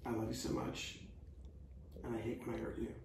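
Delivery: sincere try. Pretend. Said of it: "Say it again".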